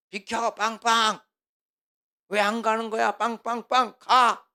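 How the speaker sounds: high, loud driver's shout with honks; angry yelling. Acted. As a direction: yell like a driver honking at whoever blocks the road. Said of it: "그게 뭐냐면 고함 치는 거거든요". (운전자처럼 빵빵거리며 크고 높게 고함치기)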